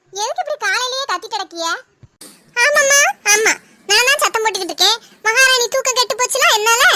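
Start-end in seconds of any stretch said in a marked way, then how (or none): 2.6-6.8 sarcastic retort. Acted. Mother-in-law snapping back at daughter-in-law, sarcastic. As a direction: agree with her in a biting tone.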